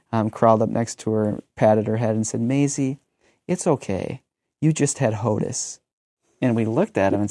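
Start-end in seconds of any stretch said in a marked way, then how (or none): 2.4-5.8 lightly voiced little boy, sweet and earnest; a hint of a toddler consoling his sister; three-year-old son. Little son comforting his baby sister, a hint of childlike earnestness. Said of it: "in his great three-year-old way".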